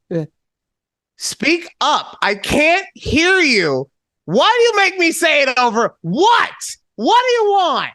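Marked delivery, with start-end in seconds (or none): 1.2-7.9 put-on very old man. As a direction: play a deaf grumpy old dad. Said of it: "I do the old man voice".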